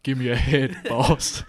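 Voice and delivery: loud laughing gentle giant; a hint of a gentle giant; Green Mile voice. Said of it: "that guy from the Green Mile".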